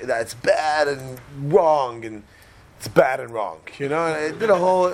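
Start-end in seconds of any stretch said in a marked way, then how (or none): 0.0-3.6 slow, drawn-out parental scolding. Retold or imitated. Father telling off his daughter, scolding slowly. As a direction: stretch the reproach out word by word. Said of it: "I did the whole bad wrong routine".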